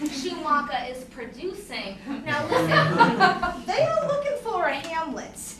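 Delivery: building to a loud gushing pitch; excited saleswoman voice, laughing; pitching recruiter. Retold or imitated. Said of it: "She said".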